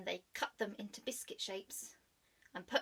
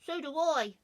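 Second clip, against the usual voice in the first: put-on high child voice; 7 semitones higher, 9 dB louder than usual. Another voice in the sack.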